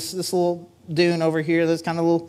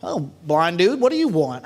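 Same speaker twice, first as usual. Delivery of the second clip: mock obtuse. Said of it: "kinda being obtuse".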